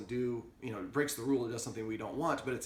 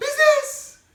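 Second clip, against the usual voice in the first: very high, very loud, shrill over-excited voice; 14 dB louder than usual. Explaining dog commands, showing the wrong way to say the word, overly excited. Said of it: "if I say it too excitedly or use a different pitch".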